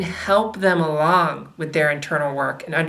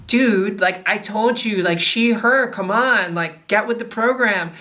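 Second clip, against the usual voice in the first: mildly impatient correction, slightly raised; exasperated mock scolding; 3 semitones higher than usual. Correcting a friend on pronouns, mock exasperated. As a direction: act out nagging someone to catch on. Acted scolding of someone misgendering.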